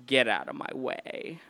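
lightly imitated low, eerie command; deep haunting voice. Frank to the man blocking him, low and haunting. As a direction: drop a little low, as if haunting. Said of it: "deep low voice ... haunting voice".

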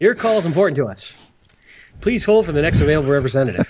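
lightly voiced hold message; phone menu voice. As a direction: read it like a hold recording. Mock phone hotline recording.

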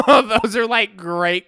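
loud laugh through the words, slowing; cracking up while talking; real laughter, slow. Real, not acted. Laughing after the quote.

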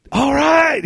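high, drawn-out delighted cheer; mock a friend jumping for joy; imitated excitement. Friend hearing the segment is on, mock excited. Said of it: "He's so excited".

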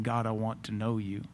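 soft, low plea; inner longing. Acted. A stranger's conscience praying to God, soft and low. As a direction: pray it quietly, from within. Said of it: "his conscience saying".

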